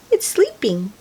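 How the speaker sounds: hush, don't wake the cat; whisper. Real, not acted. Pointing out sleeping kitty.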